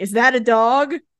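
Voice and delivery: said with obvious, heavy sarcasm. Recapping a story scene, voicing one character's remark, retelling a sarcastic question. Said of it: "like sarcastically".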